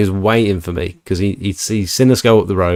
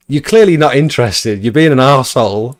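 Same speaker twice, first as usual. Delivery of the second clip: sharp, raised, fed-up retort; a touch of indignant snap; retorting to rude homeowner; 4 semitones higher than usual. Retold or imitated. To a rude homeowner, a raised fed-up retort.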